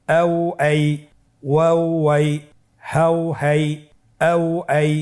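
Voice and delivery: chanted spelling, clear and firm; loud recitation drill. Shown as a demonstration. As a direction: lead the class aloud, syllable by syllable. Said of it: "আপনারা আমার সাথে বলুন". (উচ্চ আওয়াজে বানান পাঠ)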